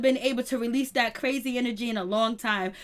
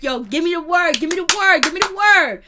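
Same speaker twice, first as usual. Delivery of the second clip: higher and louder each time; building eager shout; 5 semitones higher, 6 dB louder than usual. Retold or imitated. Voicing Don eager to fight.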